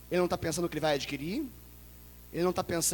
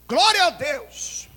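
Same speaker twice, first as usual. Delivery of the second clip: drawn-out high, loud "Glória a Deus"; mock hallelujah; 8 semitones higher, 8 dB louder, much slower than usual. Preacher mocking a generation praising in sin. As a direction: ham up empty praise.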